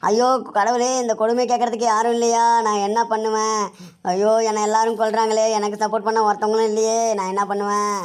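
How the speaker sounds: chanted, monotone tearful lament; wailing lament. Acted. Mother crying that nobody supports her, wailing lament. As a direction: wail helplessly to heaven. Mother wails to God as victim.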